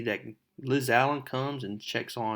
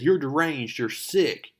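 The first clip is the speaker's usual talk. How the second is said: loud, higher mock argument; angry retort; 4 semitones higher, 4 dB louder than usual. Mary Jane yelling at Flash in detention, angry. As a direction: tell him off like a furious classmate. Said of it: "And then she says".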